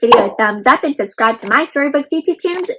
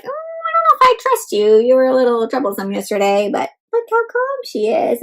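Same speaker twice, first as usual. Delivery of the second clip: wary vendor. Retold or imitated. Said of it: "They're kinda like".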